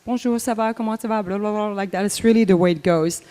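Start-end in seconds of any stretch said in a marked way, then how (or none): 0.1-1.7 quick, soft French chatter; mock fast French patter; rapid French. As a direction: rattle it off like a Parisian. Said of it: "French people talk very, very fast".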